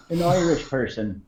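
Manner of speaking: put-on an American's take on an Irish accent; mock Irish accent. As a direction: say it in an imitation Irish brogue. Repeats words as mock Irish impersonation.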